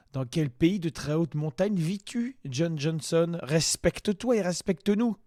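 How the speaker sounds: high, loud indignant scolding; mock angry shout. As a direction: tell him off like an outraged teacher. Scolding the video's performer. (engueulade indignée)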